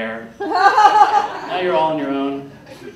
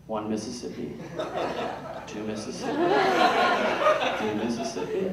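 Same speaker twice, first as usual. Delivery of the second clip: slow counting; 6 dB quieter than usual. Shown as a demonstration. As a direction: count the seconds in a hush. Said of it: "if you count like this".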